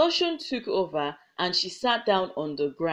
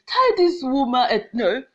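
angry order; 4 semitones higher, 4 dB louder than usual. Acted. Chief orders flogging.

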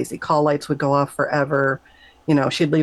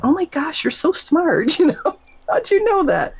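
much higher, starstruck gushing with a laugh; gushing amazement; 12 semitones higher than usual. Retold or imitated. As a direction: gush like a starstruck kid. Gushing at wise grandma spirit.

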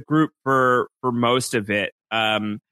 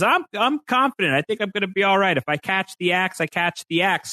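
imitating Henry; 7 semitones higher than usual. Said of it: "Henry says".

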